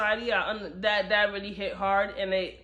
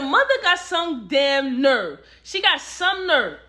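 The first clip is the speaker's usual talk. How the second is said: louder indignant disbelief; outraged; 2 semitones higher, 5 dB louder than usual. Retold or imitated. Reader reacting to the mother's betrayal, loud outrage. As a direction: call out the mother's nerve. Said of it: "And I'm like".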